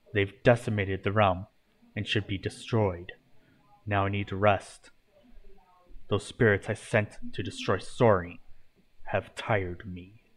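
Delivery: a hint of a tired old master; lightly voiced stern mentor, weary. Morpheus tells Irene the crafters must be destroyed, stern then weary.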